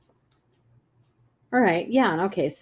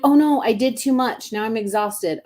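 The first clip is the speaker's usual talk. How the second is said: mock dismay; 3 semitones higher than usual. Voicing someone who overdid it.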